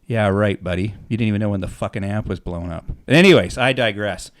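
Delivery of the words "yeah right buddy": sarcastic scoff. Real, not acted. Sarcastic aside about amp tech.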